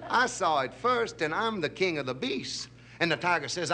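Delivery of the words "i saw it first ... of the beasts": indignant boast. Acted. Lion claiming the pool from tiger, indignant. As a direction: pull rank as an affronted lion. Lion asserts his right.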